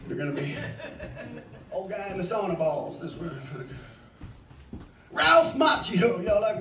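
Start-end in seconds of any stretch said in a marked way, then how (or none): 5.1-6.2 slow, savoring Ralph Macchio; drawn-out name. Shown as a demonstration. Comic asking crowd, drawn-out slow delivery. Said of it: "drawn-out name for effect".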